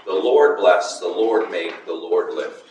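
"Lord" hit each time, falling; stress on Lord. Shown as a demonstration. Teacher marking the threefold "Lord" for students. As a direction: tap out "the Lord" three times. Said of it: "Threefold emphasis with the one name".

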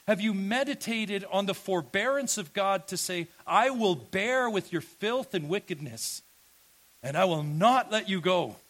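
forceful preaching. Real, not acted. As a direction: declare it loudly, building to a firm promise. Preaches God's forbearance at full force.

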